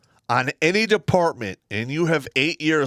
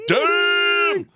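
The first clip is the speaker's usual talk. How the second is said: excited damn; 4 dB louder than usual. Real, not acted. Hearing viewer count milestone.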